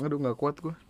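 real, hushed, touched aside; softly moved. Real, not acted. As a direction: say quietly that you can't take it. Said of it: "Gua selalu nggak kuat ketika ngelihat orang tua nangis".

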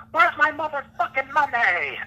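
slow, high-pitched mock scream; imitated screaming. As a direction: draw out a mock-furious demand, slightly southern. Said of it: "he is just screaming".

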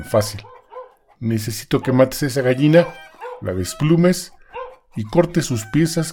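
bossy husband. Acted. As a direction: scold her like a gruff husband. Husband scolds wife.

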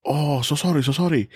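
hurried sorry from a waiter; apologetic waiter. Retold or imitated. Waiter apologizing to him, lightly mimicked. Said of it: "another fucking waiter's like".

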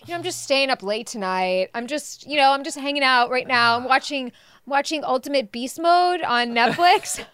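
mock-casual kid showing off; acting all cool. Mom imitates son bragging to crush about staying up, acting cool. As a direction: imitate a boy feigning nonchalance to his crush. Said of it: "like, acting all cool".

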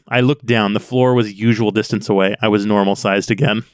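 dramatic audiobook reading; story narration. A narrator's reading. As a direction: read the novel aloud with measured intensity. Reads the book passage aloud.

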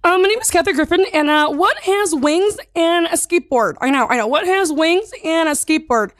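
high, quick Kathy Griffin voice; chirpy high celebrity impression; high, quick comic impression of a celebrity. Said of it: "can you do it in Kathy Griffin".

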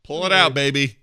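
high mock plea; mock shout. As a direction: cry it out in a high voice. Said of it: "he says".

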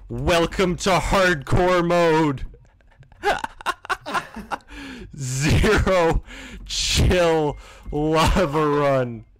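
high, slow, laughing disbelief; laughter turning nervous. Real, not acted. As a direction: laugh through the shock. Laughing at failed run.

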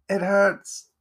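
high, pained whimper; tearful pain. A narrator's reading. Wounded Edgar tells Jack, tearful and pained. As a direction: let the hurt push the pitch up. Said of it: "tears welling up in his eyes".

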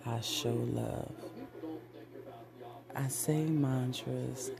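measured self-affirmation chant; affirmation recital. Acted. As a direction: recite each affirmation like a vow. Recites I am mantras.

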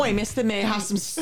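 fast mock Cockney beggar; hammed-up Cockney accent. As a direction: rattle it off in Cockney. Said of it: "that's literally it".

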